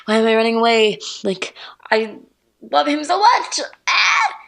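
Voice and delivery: spiral into mock panic, pitch climbing; retold panic. Girl berating herself for running from her crush, panicking. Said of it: "like, a panic attack".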